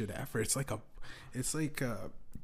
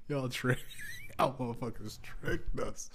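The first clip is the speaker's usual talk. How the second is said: laughing accusation. Real, not acted.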